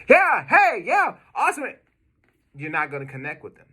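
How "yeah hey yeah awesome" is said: way higher and louder, bursting with energy; overexcited hype voice. Shown as a demonstration. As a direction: gush like a pumped-up kid on the phone. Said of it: "You don't wanna call an older person and you're like".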